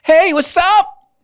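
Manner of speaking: mock cheerful assistant. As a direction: overdo a peppy radio host hello.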